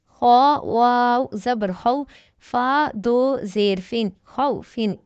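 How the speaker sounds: slow, deliberate letter-by-letter recitation, each syllable set apart; slow tajweed spelling drill. Shown as a demonstration. Teacher drilling students in Quran reading, slow syllable recitation. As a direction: spell each letter and vowel slowly for beginners.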